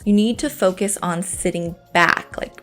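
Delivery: calm, even voiceover read; walk them through it calmly; voiceover narration. Acted.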